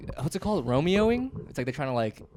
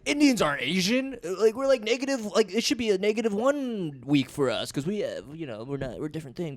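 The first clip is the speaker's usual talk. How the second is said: imitating Indian comic; 6 semitones higher than usual. Retelling an Indian comic's bit to a co-host, high-pitched imitation. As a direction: lift the voice as the protesting comic. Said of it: "an Indian comic did it".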